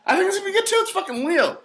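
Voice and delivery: laughing high through the words. Real, not acted. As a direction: giggle it out in agreement. Laughing agreement about Leo movie.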